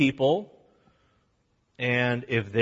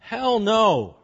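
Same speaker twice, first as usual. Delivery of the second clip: louder, higher blunt refusal; emphatic hell no; 8 semitones higher, 5 dB louder than usual. Shown as a demonstration. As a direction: slam it shut. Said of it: "again in verse six".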